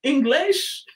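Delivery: drawn-out attempt at an English accent; mock English accent. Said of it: "changer un petit peu mon accent".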